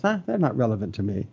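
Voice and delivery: dismissive. Acted. People discounting God's laws, dismissive. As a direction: shrug it off as beneath notice. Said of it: "They discounted his laws".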